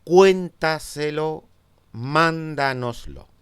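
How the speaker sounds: cuéntaselo and mándanoslo said slowly, stress on cuén and mán; slow stress demo. Shown as a demonstration. Teacher slowly models these words for students, stressing the first syllable. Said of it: "Y sobre esdrújulas".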